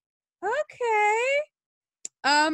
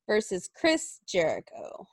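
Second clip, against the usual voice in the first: whispered; 3 semitones lower, 5 dB quieter than usual. Acted. Hype announcement whispered.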